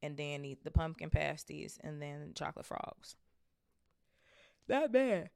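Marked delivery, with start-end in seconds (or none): 4.7-5.3 put-on voice. Jokey put-on voice.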